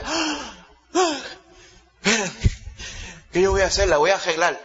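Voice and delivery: ah, espérate, voy a arreglarla; remendón decidido. Retold or imitated. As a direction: como quien no tira nada. Persona del pasado decide remendar. (imitando a alguien que decide remendar)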